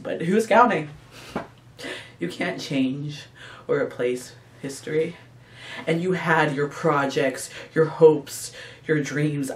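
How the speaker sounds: hurt monologue with emphatic bursts; acted wounded reproach; dramatic monologue. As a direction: swell on the accusation, then fall back into pauses.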